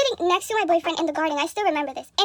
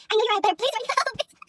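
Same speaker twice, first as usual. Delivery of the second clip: mock sympathy; 5 semitones higher, 3 dB louder than usual. Mock condolence text, laughing.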